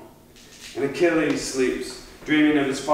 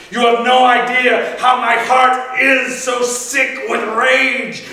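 a warrior barely holding his rage back; angry warning; 8 semitones higher, 7 dB louder than usual. Acted. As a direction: hold back rage and warn him hard. Achilles warns Priam off.

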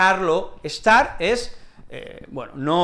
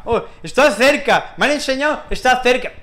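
mock proud learner; 6 semitones higher, 4 dB louder than usual. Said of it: "eso lo sabe todo el mundo".

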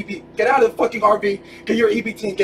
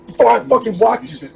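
real loud threat; 3 semitones higher, 4 dB louder than usual. Real, not acted. Threat during pushing.

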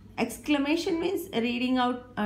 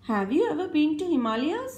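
questioning tune; 5 semitones higher than usual. Shown as a demonstration. Teacher asking a pupil with a rising tune. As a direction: question rising high at the end. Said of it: "modulation of the voice is very, very important".

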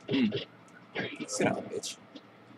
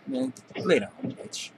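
taunting yell; slower than usual. Real, not acted. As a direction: bark it at the beaten enemy. Taunting a downed enemy.

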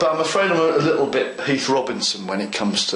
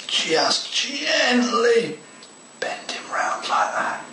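hushed and gentle; 10 semitones higher, much slower than usual. Real, not acted. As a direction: ease the words out as gently as the hands move. Delicate bending of model wall.

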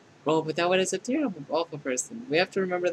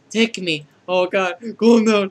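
loud plea building higher; worked-up, shouted begging; frantic outburst; 4 semitones higher, 11 dB louder, much slower than usual. Acted. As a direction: cry out as if losing control. AI character loses control confessing.

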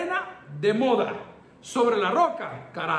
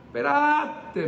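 slow, higher drawn-out wait; mentor's rebuke; 5 semitones higher, much slower than usual. Retold or imitated. Pastor quoting his mentor stopping him, slow and drawn out. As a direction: stretch it out like a patient elder cutting him off. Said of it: "solo esto me dijo".

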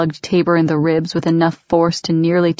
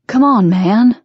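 louder, higher, begging for his life; desperate pleading; 5 semitones higher, 5 dB louder, slower than usual. A narrator's reading. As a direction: plead frantically, voice climbing. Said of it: "Reginald was pleading now".

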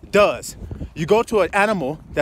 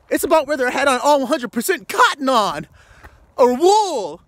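mocking legalist; 3 semitones higher than usual. Preacher mocking the legalists' outward rules, sarcastic. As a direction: sneer out the rule-keeper's worries.

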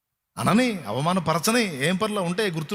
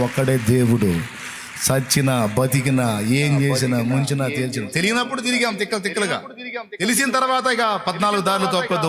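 preaching; 3 semitones lower than usual. Acted. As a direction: hammer each phrase home for the congregation. Emphatic preaching. (బోధకుడు గంభీరంగా ప్రకటించడం)

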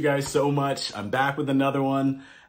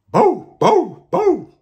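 very high, loud barking; high dog barks; 7 dB louder, slower than usual. A narrator's reading. Reading to kids, barking like an Indian dog. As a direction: bark shrilly like a small dog. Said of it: "Dogs in India bark".

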